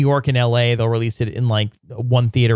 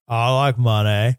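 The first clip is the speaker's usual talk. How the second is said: talking around a pen in the teeth. Shown as a demonstration. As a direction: mumble it past an object in the mouth. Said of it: "I gotta put a stick in my eye".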